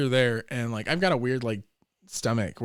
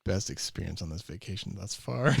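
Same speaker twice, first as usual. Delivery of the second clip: laughing; 4 semitones lower, 5 dB quieter than usual. Retold or imitated. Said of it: "I was like".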